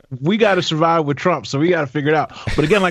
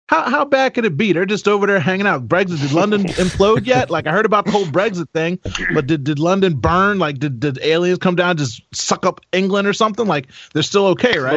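higher-pitched sceptical questioning; mock disbelief; 4 semitones higher than usual. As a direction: play the unconvinced onlooker, pitched up. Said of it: "I'm like, "Well".

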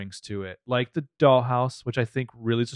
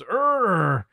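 mock moan; 8 semitones higher, 4 dB louder than usual. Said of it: "the speaker moans".

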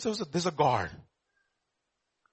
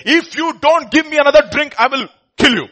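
put-on loud, raised drunken threat; 7 semitones higher, 8 dB louder than usual. Drunk man with a pistol demanding another drink, loud threat. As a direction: bark the threat like a drunk gunman.

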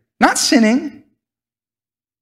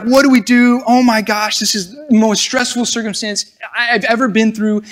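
mock stressed panic; 3 semitones higher than usual. Preacher voicing trembling disciples at the meal, mock stressed panic. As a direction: voice their alarm, half in earnest. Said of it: "They're trembling 'cause God just told them".

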